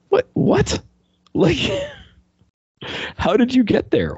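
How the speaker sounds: high, squeaky double what with a laugh; baffled disbelief. Retold or imitated. Reacting to the mine blowing up the villains, high laughing disbelief. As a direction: pitch up in laughing confusion.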